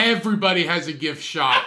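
amused shouted comeback; loud rebuttal. Real, not acted. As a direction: fire back loudly over the laughter. Heated comic argument over gift shop.

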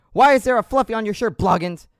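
high, loud French Canadian drill sergeant. Acted. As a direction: grill the recruit in a French Canadian accent. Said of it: "with this accent".

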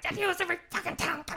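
high, strained mock rage, tossed off fast; hammed-up fury at a pointless rule; retold raging outburst. Stepping out of the office, raging where the lobby can hear: mock angry outburst.

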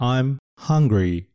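slow, careful I'm hungry for learners; slow model phrase. Shown as a demonstration. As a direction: say it slowly for students to copy. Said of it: "この単語で練習をしてみましょう". (ゆっくりお手本の発音)

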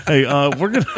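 high giggling through the words; laughing. Real, not acted. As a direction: laugh while trying to talk. Laughing at fleshlight joke.

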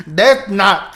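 mock sassy foreign pronunciation, laughing; mimicking Siri's attitude. Player mimicking Siri's Spanish to friends, sassy imitation. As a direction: copy the assistant's spicy delivery. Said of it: "with so much attitude".

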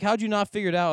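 high incredulous question; mock astonishment, voice up high; retold disbelief. Host replaying his reaction to his cousin, high incredulous. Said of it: "I was like".

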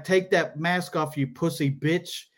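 lightly imitated Middle Eastern accent; Middle Eastern-sounding accent. Italian guy repeats demand to comic, lightly imitated Middle Eastern-sounding accent. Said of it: "he's got this accent".

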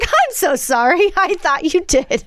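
slow, drawn-out retold apology; imitated remorseful mother. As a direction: stretch out a mom's pleading regret. Retold mother's remorse while hugging.

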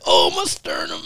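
low mock moan of pain; imitated pained groan. Punched wrestler clutching at his sternum, low imitated groan. Mimics opponent hurt by the punch.

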